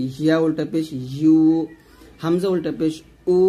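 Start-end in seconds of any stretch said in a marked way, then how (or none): 0.1-1.4 ইউ with the tongue middle pressed to the palate; tongue-middle ya demo. Shown as a demonstration. Teacher demonstrates ya articulation to students. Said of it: "জিহ্বার মধ্যখান উপরতলার সঙ্গে লাগাবেন".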